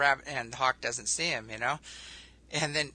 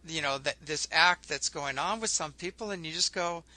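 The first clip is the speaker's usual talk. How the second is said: ordinary talk, nothing marked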